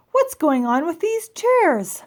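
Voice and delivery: slow, high and loud disbelief; bewildered outcry. Acted. Mr Hardy demands an answer about his chairs, slow and loud.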